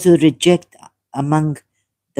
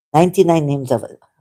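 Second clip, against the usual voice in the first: ordinary talk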